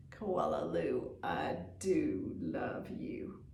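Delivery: slow, hushed whisper; longing whispered refrain; whispered memory. Acted. Remembered refrain under stars.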